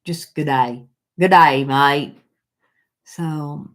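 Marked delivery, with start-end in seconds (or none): 0.3-2.2 Aussie accent. Shown as a demonstration. Host tries greeting Mike in Aussie, playful Australian accent. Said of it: "good night in Aussie".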